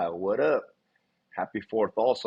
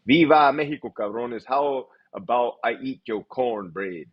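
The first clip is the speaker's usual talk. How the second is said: silly put-on voice. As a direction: read the comment in a mock macho voice. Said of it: "I don't know why I read it in that voice".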